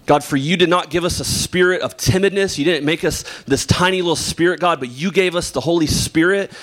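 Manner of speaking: earnest, steady prayer voice; fervent congregational prayer. Acted. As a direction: pray over the room with conviction. Opening prayer before sermon.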